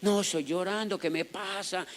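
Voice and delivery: slow, softened mock crying; lightly imitated weepy bewilderment; retold tearful dismay. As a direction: act out being startled by your own tears. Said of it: "empecé a llorar y yo".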